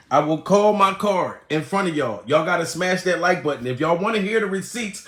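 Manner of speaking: ordinary talk, nothing marked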